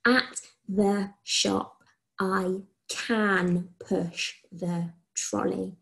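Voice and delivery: very slow dictation with can put back, as I can push the trolley; slow dictation with every word in place; slow corrected dictation. Shown as a demonstration. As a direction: read I can push the trolley slowly, with can included. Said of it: "So shall I try that again?".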